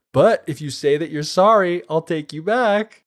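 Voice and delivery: pleading demand. Retold or imitated. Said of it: "he's like".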